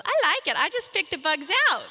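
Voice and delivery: a perky preschooler unbothered by bugs; imitating a little girl. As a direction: chirp it like a happy four-year-old. Voicing the four-year-old.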